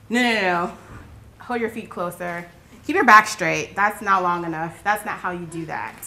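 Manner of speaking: imitated fussy, scolding prayer police; scolding correction. Prayer police correcting a girl's posture, scolding. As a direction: correct a child's posture in quick, insistent bursts.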